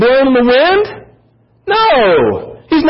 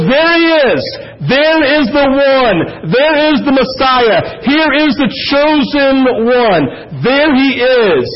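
slow, ringing cry of recognition; preacher voicing John calling out at the river; excited proclaiming; 3 semitones higher, slower than usual. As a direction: announce him to the crowd with joy.

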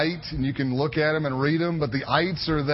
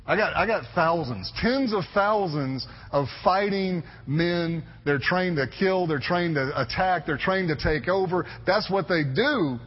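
slightly raised, emphatic disbelief; incredulous protest; 2 semitones higher than usual. Acted. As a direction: protest the orders, stretching key words in mild disbelief. Acts out objection to God's orders.

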